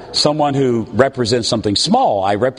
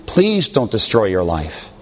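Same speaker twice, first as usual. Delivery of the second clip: mild pleading; 5 semitones lower than usual. Retold or imitated. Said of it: "begging and pleading with their children".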